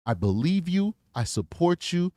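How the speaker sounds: victim-friendly interview voice; gentle reassuring. Shown as a demonstration. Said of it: "That's how you talk to somebody".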